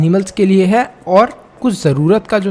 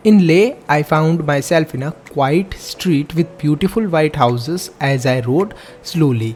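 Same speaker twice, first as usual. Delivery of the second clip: slow, deliberate textbook reading; measured classroom read-aloud; reading aloud slowly; 2 semitones lower, much slower than usual. Acted. Reads textbook passage aloud.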